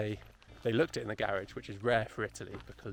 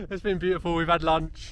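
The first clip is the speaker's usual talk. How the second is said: laughing; 6 semitones higher, 6 dB louder than usual. Real, not acted. Repeats with laughter.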